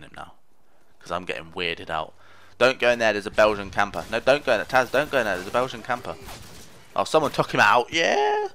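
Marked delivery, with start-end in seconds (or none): 2.6-6.2 urgent warning call. Real, not acted. Warning teammate Taz. 7.0-8.5 high, loud whoop of joy; excited cheer. Real, not acted. Enemy killed by teammate.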